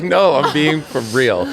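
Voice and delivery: high, loud insistence; insisting loudly. Retold or imitated. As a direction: insist it's no joke. Insisting to coach.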